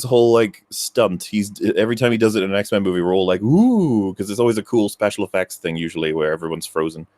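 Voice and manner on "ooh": imitated crowd "ooh", swooping up and down; drawn-out mock gasp of wonder; awed ooh. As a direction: mimic a wowed audience's ooh. Audience awed by freeze effect.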